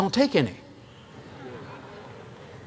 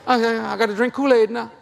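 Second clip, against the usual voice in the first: high whiny complaint; 5 semitones higher than usual. Retold or imitated. Kid short of a penny, rising whine. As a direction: play a broke kid whining about a nickel. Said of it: "I thought".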